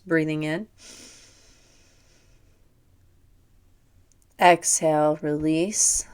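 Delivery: soothing yoga nidra guide voice; guided meditation. Real, not acted. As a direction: ease the listener gently into relaxation. Leads guided breathing relaxation.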